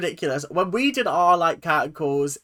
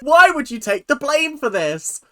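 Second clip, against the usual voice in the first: loud, high protest; exasperated outcry; 7 semitones higher, 7 dB louder, slower than usual. Real, not acted. Reactor scolding a mother on screen, exasperated outcry. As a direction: cry out in disbelief, high and loud.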